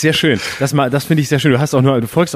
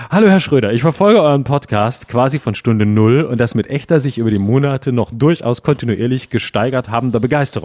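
reading a fan message. Acted. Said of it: "ich möchte es vorlesen".

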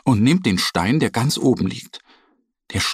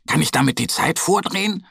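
curious; 7 semitones higher, faster than usual. Acted. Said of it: "fragt Mo neugierig".

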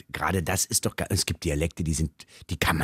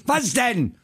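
annoyed Berliner; 14 semitones higher than usual. Retold or imitated. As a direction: snap at the caller like a grumpy repairman. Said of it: "Auch immer, immer genervt".

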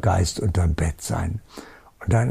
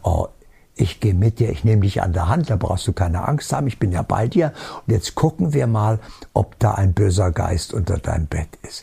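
reassuring mother; 3 semitones lower than usual. Retold or imitated. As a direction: gently take the child by the hand. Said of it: "Die sagt".

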